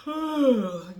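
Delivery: a long, audible demonstration yawn; demo yawn. Shown as a demonstration. Showing viewers how contagious a yawn sounds, demo yawn. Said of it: "you see me yawning".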